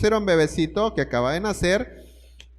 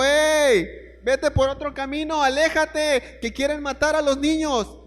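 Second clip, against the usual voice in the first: a hint of an urgent divine warning, pitched higher; God warning Joseph; 5 semitones higher than usual. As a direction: lightly voice God urging Joseph to flee. Dios advierte a José. (Dios advierte a José, voz más aguda y urgente)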